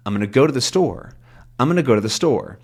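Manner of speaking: quick "I'm gonna go to the" landing on "store"; natural smushed speech. Shown as a demonstration. Teacher repeating what sounds perfectly natural, smushed quickly. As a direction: squeeze "gonna" and "to the" at a brisk pace. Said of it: "that sounds perfectly natural".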